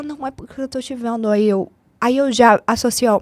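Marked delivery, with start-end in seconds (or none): 0.0-1.3 weepy, tearful voice, speaking through tears. Retelling what a crying fan said at the mall: imitating a fan crying. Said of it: "aí ela começou a chorar".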